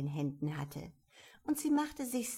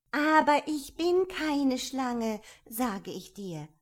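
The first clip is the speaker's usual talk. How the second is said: calling out; 5 semitones higher, 8 dB louder, slower than usual. A narrator's reading. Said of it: "rief Alice".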